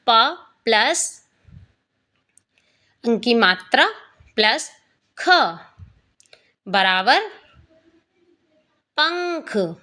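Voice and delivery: प, अंक की मात्रा, ख said slowly with pauses, then पंख joined with its nasal; slow teacher breakdown of पंख; sounding out parts. Shown as a demonstration. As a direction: build पंख piece by piece for a child. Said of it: "इस तरीके से हमें उच्चारण करना है".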